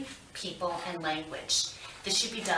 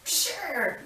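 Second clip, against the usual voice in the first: excited sure; 9 semitones higher than usual. Acted. Therapist handing over toy.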